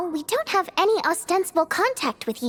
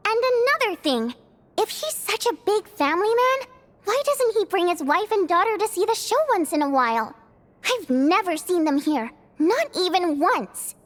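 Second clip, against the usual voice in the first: worked-up rant. Acted. Theater manager venting about a rude patron, heated and indignant. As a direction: pile on the grievances, getting more and more worked up. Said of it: "Calm down, Vodyanitsa".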